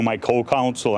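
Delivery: "co-counsel" given deliberate weight; stress on co-counsel. Real, not acted. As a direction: put the emphasis on "co-counsel". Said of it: "I stress the word co-counsel".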